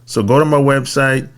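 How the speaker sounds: measured podcast ad read; sponsor read. Acted. Host pitching a tax credit service to business owners, ad read. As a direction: pitch it in short, even phrases.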